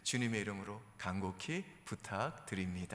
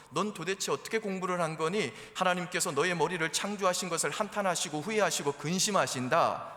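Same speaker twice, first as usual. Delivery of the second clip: loud, high scolding mother; spiritual nagging; 5 semitones higher, 6 dB louder than usual. Acted. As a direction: scold your child with scripture like a sermon. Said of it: "성경 말씀을 인용하면서 영적인 잔소리를 하세요".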